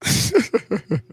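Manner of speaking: short high-pitched laugh; high giggling laugh. Real, not acted. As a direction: let out a quick high chuckle. Amused host laughs before going on.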